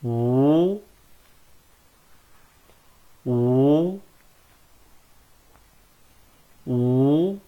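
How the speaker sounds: drawn-out model vowel for repeating; modelled vowel. Shown as a demonstration. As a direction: sing the vowel slowly for the class. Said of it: "teacher models vowel for class".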